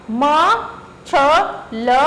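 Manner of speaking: म, छ, ल said letter by letter; spelling out letters. Shown as a demonstration. Teacher spelling the word for pupils, letter by letter. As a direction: sound out म, छ, ल one by one. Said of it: "मछली का".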